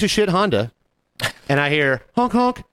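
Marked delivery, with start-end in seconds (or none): 2.2-2.6 high, toy-like honking; spoken car-horn noise, pitched up; imitated car horn. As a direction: mimic two toots of a horn.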